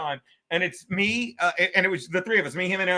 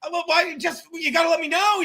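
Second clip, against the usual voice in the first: high mock complaint; 9 semitones higher than usual. Imitating angry club owner.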